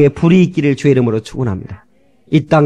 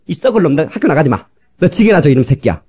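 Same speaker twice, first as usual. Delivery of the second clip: mock angry parent. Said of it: "막 이러고 싶은데".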